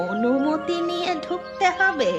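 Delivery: high-pitched affronted question; indignant disbelief. Acted. Old woman told to ask before entering, indignant disbelief. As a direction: echo the demand in disbelief.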